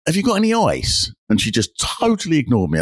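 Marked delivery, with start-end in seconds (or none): 0.1-1.1 urgent plea. Retold or imitated. Retelling a plea at the bar.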